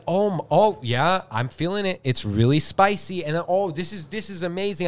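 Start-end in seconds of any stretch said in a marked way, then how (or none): 0.1-3.2 fake enthusiasm. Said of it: "I'm acting like a jackass". 3.4-4.9 fake delight. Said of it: "I'm acting like a jackass".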